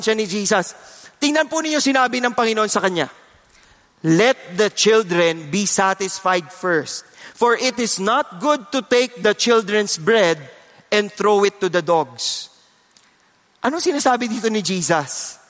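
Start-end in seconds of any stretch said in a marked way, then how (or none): 4.0-12.5 slow reading. Acted. Reading Jesus' words slowly.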